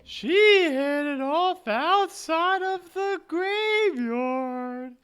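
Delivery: put-on high, slow ghost girl; drifting, wistful ghost. Plays the ghost.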